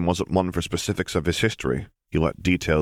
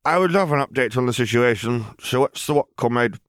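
higher, pleased and grand; Lily playing a drug lord; 7 semitones higher than usual. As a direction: savour it like a boss back in charge.

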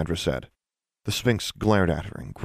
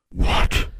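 loud, rough monster question; gruff disbelief; baffled sphinx; 5 dB louder than usual. Acted. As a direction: blurt it as a suspicious beast. Confused, suspicious sphinx reacts.

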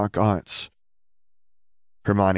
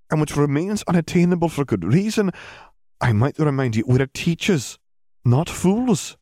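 higher, firm Scottish-teacher voice; stern McGonagall; 11 semitones higher than usual. Acted. Headmistress scolding a student, firm and stern. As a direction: lecture her with cool authority.

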